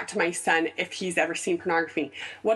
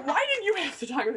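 laughing exasperation; 11 semitones higher, faster than usual. Retold or imitated. Mock exasperated quote to husband.

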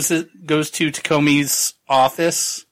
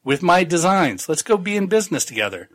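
eager foreman voice; 6 semitones higher than usual. Retold or imitated. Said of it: "He's like".

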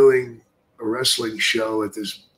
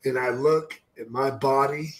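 a gloomy undertaker confessing; Paul Bearer impression; 4 semitones higher than usual. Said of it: "He's like".

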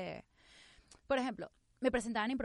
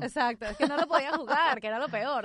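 emphatic; 6 semitones higher, 10 dB louder than usual. Real, not acted. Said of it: "emphatic agreement".

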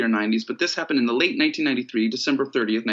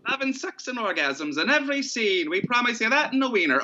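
sing-song market hollering; 9 semitones higher than usual. Pretend. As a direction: pitch it like a hawker selling wieners. Continuing vendor pitch.

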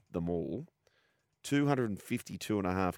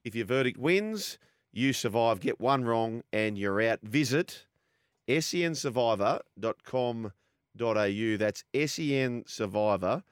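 brisk, upbeat radio promo read; sponsor ad read; 3 semitones higher than usual. Acted. Host reads a survivor tipping promo to listeners, ad read. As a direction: sell the competition to listeners.

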